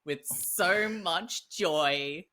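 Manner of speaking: gushing thanks, lightly put on; a touch of sarcastic-sounding gratitude; switched-up silly voice. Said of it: "It's just the voice".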